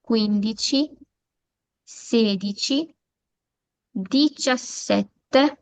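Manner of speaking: put-on slow drawn-out teens with rising ends; Italian teens modelled. Shown as a demonstration. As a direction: model each number slowly. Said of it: "यहाँ पे देखिए खासतौर पे quattordici".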